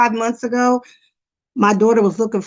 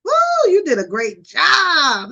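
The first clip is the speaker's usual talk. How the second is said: high, slowed, hammed-up cheer; mock cheering; 6 semitones higher, slower than usual. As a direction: fake enthusiastic praise. Mocking empty praise.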